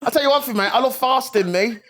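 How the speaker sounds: very high, hammed-up Cockney; mock Cockney accent. Riffing as a fasting Muslim geezer, mock Cockney. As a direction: keep up a silly squeezed-up Cockney geezer. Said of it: "It was like a Cockney".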